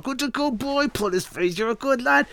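put-on high, excited baby talk to the dog; gushing praise. Owner wrestling the dog and gushing, high. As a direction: fuss over him wildly.

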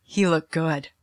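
high, laughing through the words. Real, not acted. Teller laughing to the audience about her ex's photo. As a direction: giggle while admitting it, a little flustered.

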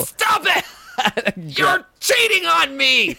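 high, wailing shout; mock jealous wail. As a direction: howl like a betrayed lover.

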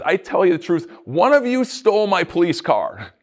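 police officer accusing the class, mock angry. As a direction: bust in like a hammed-up angry cop. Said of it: "busts in all angry and says".

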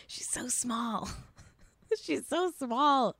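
slow, drawn-out words through laughter; giggling. Real, not acted. Host cooing over tiny Anna Kendrick, slow giggly delivery. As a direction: giggle it out slowly.

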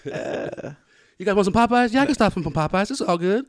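high-pitched mock Houston accent; thick Houston accent. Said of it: "everyone has the thick accent".

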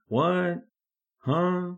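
baffled. Retold or imitated. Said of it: "I'm like".

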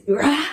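imitating his furious roar; mock roar. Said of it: "at the top of his lungs".

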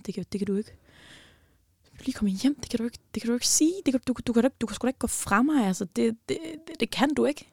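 half-whispered protest that he can't go; reliving the plea; desperate pleading. Retold or imitated. Begging boyfriend not to leave.

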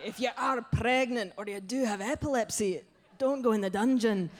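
mock-stern Scottish butcher warning; imperfect Scottish accent; attempted Scottish accent. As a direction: give a safety warning in put-on Scottish. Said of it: "I can't do the accent very well".

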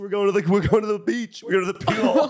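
high, bright, bouncy mom voice; cheery mom. Retold or imitated. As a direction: chirp it like a mom in a good mood. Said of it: "when your mom's like".

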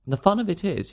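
a touch of a chuckling detective; amused cry. A narrator's reading. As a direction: burst out in mild delight. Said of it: "paroxysm of amusement".

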